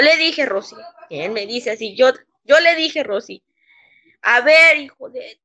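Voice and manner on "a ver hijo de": retold indignant challenge. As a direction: imitate an outraged boss's challenge. Retells boss's indignant confrontation. (reto indignado, imitando al jefe)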